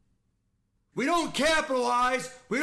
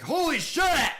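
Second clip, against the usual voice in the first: exasperated yell; 5 semitones higher, 4 dB louder than usual. Real, not acted. Yet another bad game play.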